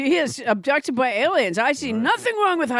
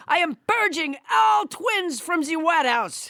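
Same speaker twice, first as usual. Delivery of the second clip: French Trump voice. Acted. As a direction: keep the French Trump puppet going. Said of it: "French Trump would disown her".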